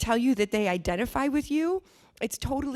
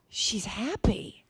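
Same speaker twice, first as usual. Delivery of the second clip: whispered; much slower than usual. Real, not acted. Savoring the happy character.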